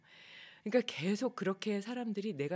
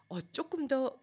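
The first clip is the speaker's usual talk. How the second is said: self-resolving thought; 8 semitones higher, 5 dB louder than usual. Retold or imitated. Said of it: "하고 포커스를 내면으로 맞출".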